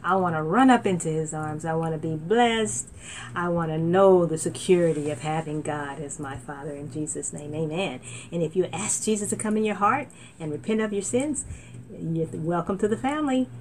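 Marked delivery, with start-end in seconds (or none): 0.0-8.0 prayer to repeat. Shown as a demonstration.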